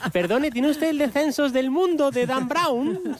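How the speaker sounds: high, slow put-on voice asking politely; mock library visitor. Joking host plays visitor seeking a book, high mock-polite voice.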